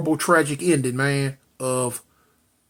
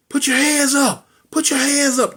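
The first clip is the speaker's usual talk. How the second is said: higher-pitched, insistent police order; police command; 9 semitones higher than usual. Retold or imitated. Police easing up on the brother, acted-out commanding call. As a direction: call it out as officers closing in.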